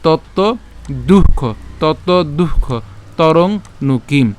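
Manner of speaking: slow, separated verse words; slow drill. Shown as a demonstration. Teacher drilling the last phrase for learners, slow word-by-word recitation. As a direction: pause after each word, very deliberate.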